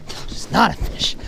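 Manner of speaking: drawn-out, effortful groan of words; strained dismay. Real, not acted. Angler finds the bite is no fish, strained dismay. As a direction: strain it out slowly in disappointment.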